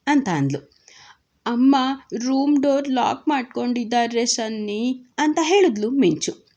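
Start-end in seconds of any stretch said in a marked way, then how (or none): 1.4-5.0 put-on little girl's voice; child Minchu. A narrator's reading. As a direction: speak as a small child reporting.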